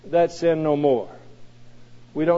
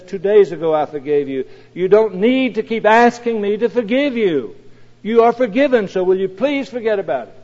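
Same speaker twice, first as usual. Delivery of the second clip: a touch of an exasperated father, rising louder; irritated father; 3 semitones higher, 4 dB louder than usual. Retold or imitated. Father to his son asking forgiveness again, mildly irritated. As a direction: let the father's patience wear thin. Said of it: "By now the father is irritated".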